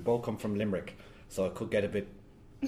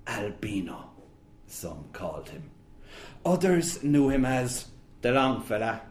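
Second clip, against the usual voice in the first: put-on Bohan accent. Author reads his novel aloud in a Bohan accent. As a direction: tell it like a brooding Bohan storyteller in its own accent. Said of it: "read in a Bohan accent".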